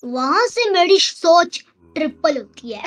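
slow, drawn-out gloating; villainous boast. Pretend. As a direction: gloat like a game villain, stretching the words. Villain gloats over trapped rival. (खलनायक जैसी धीमी, घमंडी डींग)

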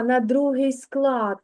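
другий said slowly and clearly; stress on другий. Shown as a demonstration. Teacher to child, slowly marking другий. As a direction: lean on the word другий. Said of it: "куди ж падає наголос".

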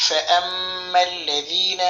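slow, drawn-out chanted recitation; slow Quranic chant. Acted. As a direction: recite it slowly with melodic tajweed. Recites verse fragment.

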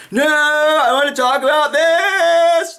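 very high, slow, insistent cut-off; hammed-up interrupting host; mock TV host. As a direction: talk over the guest, shrill and stretched. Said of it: "the host is like".

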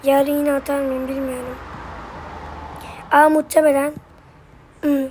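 slightly hoarse, dry throat. Real, not acted. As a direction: talk through a scratchy throat. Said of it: "Sesim biraz kısık geliyor olabilir".

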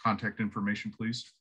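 quiet, low, expressionless clerk; lightly voiced deadpan counter clerk. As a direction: read it completely straight, no reaction. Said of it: "he's super deadpan".

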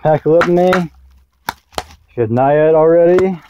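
slow, drawn-out retake; slow, careful retake. Real, not acted. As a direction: say it again slowly and carefully. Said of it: "oh shit".

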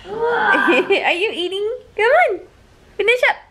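high teasing urging; playful coaxing. Real, not acted. Teasing child still eating.

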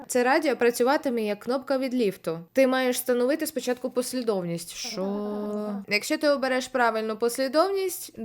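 ordinary talk, nothing marked

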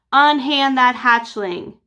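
slow, booming rescue order; a touch of a hammed-up hero's bellow; heroic command. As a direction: charge in with authority. Uncle bursts in to rescue.

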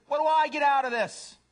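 high, loud demand; self-centered cat. Acted. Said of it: "A cat says".

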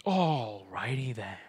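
slow breathy whisper of the catchphrase; hushed mock repeat of alrighty then; whispered echo. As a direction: whisper it back slowly, teasing. Echoing partner's catchphrase.

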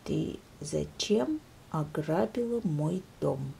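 soft, low, slow question; very quietly. Acted. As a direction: ask it almost under your breath. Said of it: "очень тихо спросил медвежонок".

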